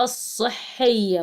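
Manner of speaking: "الصحية" said slowly, leaning on the doubled ص; slow teaching demo. Shown as a demonstration. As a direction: drag out the shadda in "الصحية" for the kids. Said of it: "دي الصاد عليها شدة". (نطق "الصحية" ببطء مع تشديد الصاد)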